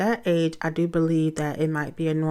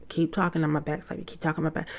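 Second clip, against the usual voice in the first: soft, offhand threat she won't carry out; mock-idle threat, softer; half-hearted empty threat; 4 dB quieter, much faster than usual. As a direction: toss it off quietly, no real bite. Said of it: "I give a lot of empty promises".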